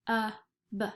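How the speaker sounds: K-U-B stretched sound by sound. Shown as a demonstration. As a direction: stretch cub apart slowly. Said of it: "Can you stretch the word cub?".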